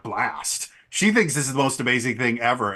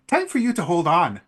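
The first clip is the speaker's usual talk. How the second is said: a lightly higher, perky Fubari; upbeat command to hang on, a bit pitched up; Fubari's voice; 5 semitones higher, 4 dB louder than usual. Acted. Fubari telling the rider to grab on, light perky voice. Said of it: "she just looks at you and goes".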